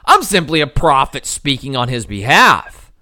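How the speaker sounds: hammed-up startled objection; mock Jesus voice. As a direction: play Jesus hastily stopping Thomas. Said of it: "Notice Jesus doesn't say".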